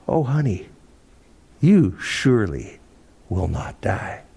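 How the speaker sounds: sweet-talking serpent, slow and coaxing; cleverly lulling reassurance; winsome, loving. Acted. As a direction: coax gently, with pauses between phrases. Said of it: "so cleverly said, so winsomely said, so lovingly said".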